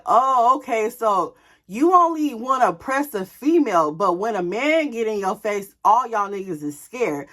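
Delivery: loud, scornful call-out; mocking challenge, punched hard; taunting. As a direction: call their bluff, loud and pointed. Taunting the scared intruders.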